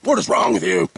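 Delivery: a hammed-up purist scolding the vlogger; imagined coffee snob. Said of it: "someone out there who's like".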